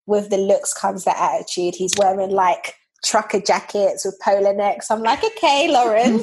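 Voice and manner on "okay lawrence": teasing okay. Retold or imitated. Reacting to his new style.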